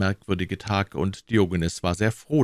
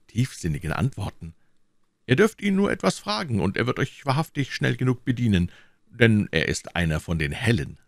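a hint of a boastful citizen selling his sage; proud townsman. Citizen praises his philosopher to the king, lightly voiced eager boast.

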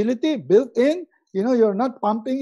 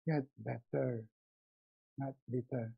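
quiet motto; 8 semitones lower, 17 dB quieter than usual. Pretend. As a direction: let the motto sink in softly. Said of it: "And he taught me".

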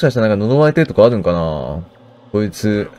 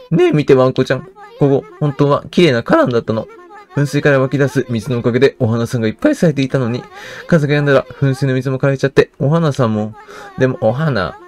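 put-on little girl; 3 semitones higher than usual. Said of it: "子供のね、けなげさがいいですね".

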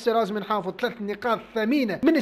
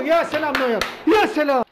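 loud, high cry of praise; excited cheer; 5 semitones higher, 5 dB louder than usual. Real, not acted. Gamer cheering his goalkeeper's save, loud and high. Keeper Neuer makes a save.

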